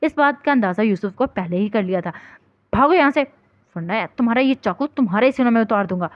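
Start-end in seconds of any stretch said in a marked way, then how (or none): 2.7-6.1 threatening shout. Acted. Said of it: "یوسف نے چاقو سے اشارہ کرتے ہوئے بولا".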